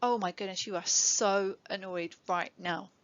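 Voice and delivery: put-on meet the child's level with force; matching their energy. Shown as a demonstration. Parent matching an angry child's upset with an emphatic voice. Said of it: "changing the tone to be slightly more in tune with the level of their emotion".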